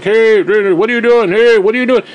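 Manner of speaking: loud call over a headset; mock shouting guy. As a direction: bark it like an annoyed gamer. Imitating guy shouting over mic.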